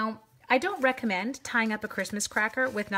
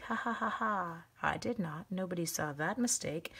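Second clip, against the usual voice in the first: softer, mock-sneaky aside; sly pretend chuckle; 2 semitones lower, 6 dB quieter than usual. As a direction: laugh it off quietly, as if hiding a slip. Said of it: "you can be like".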